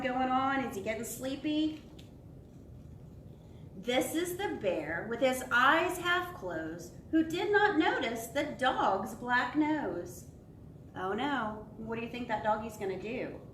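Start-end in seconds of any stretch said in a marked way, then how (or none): 3.7-10.3 slow, lilting picture-book narration; sing-song storybook reading; reading to children. Acted. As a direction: read it to little ones, savouring each phrase.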